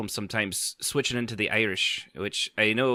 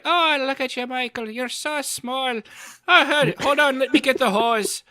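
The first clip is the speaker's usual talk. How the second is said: higher-pitched Irish accent imitating an old neighbour; playful Irish accent, like the neighbour Mister Kelly teasing the little boy; Irish neighbour's voice; 12 semitones higher than usual. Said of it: "he was always like".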